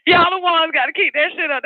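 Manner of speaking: repeating the punchline through laughter; cracking up at own line; laughing. Real, not acted. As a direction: laugh while saying it again.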